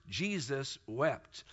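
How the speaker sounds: almost breathe the words; the verse said softly and slowly; hushed slow quote. Shown as a demonstration. Third repetition, very soft.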